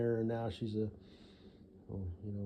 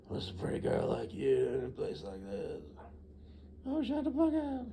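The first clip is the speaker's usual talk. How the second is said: cheesy pickup line; 2 semitones higher than usual. Retold or imitated. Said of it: "some sort of line, something clever and original".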